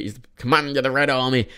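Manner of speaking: lightly imitated Geordie accent. Film fan imitating an actor's Geordie accent. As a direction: have a go at a Geordie Red Army commander. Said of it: "just does this Geordie accent".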